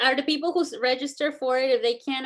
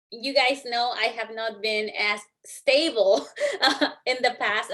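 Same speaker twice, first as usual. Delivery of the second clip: choked up; slower than usual. Real, not acted. Thanking voters, emotional.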